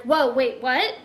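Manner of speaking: reliving the shock of a surprise chapter; thrown. Retold or imitated. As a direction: caught off guard, question after question. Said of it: "I was thrown".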